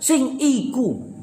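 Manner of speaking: high, very slow, stress on iku; drawn-out insistent iku; emphatic stress. Shown as a demonstration. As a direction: point firmly at that one. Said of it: "penekanan suara ini".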